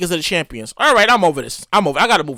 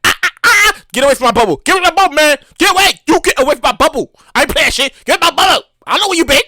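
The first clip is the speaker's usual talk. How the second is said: mock guarding bubble; 3 semitones higher, 3 dB louder, faster than usual. Acting out someone guarding bubble.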